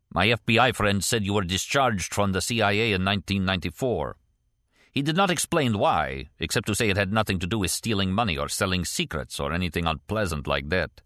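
lightly voiced Russian émigré character; a hint of a Russian accent, measured delivery; Kastner, accented former KGB man.

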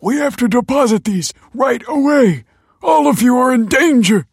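high, loud, frantic alarm; urgent warning. A narrator's reading. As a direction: cry out to warn everyone of danger. Father warns family of danger.

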